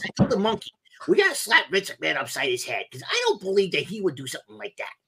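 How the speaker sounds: outraged parrot complaining about the boss; Iago impression. Parrot Iago rants about a Saudi WWE buyout. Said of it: "Do an Iago impersonation".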